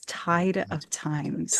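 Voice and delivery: slow, savoring tide of times; savoring the phrase. Shown as a demonstration. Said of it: "What a gorgeous phrase".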